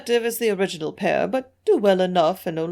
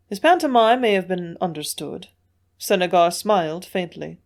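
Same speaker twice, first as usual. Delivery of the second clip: plain reading voice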